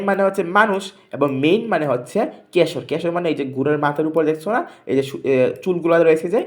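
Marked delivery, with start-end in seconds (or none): 1.4-1.7 মেইন said with a long ei glide, like English "mane"; মেইন stretched, not ম্যান; মেইন meaning a horse's mane. Shown as a demonstration. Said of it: "আমাকে শুনে নাও".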